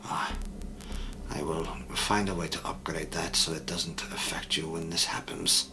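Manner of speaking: lightly voiced Eastern European accent; a hint of Eastern European in an even voice. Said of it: "an Eastern European accent".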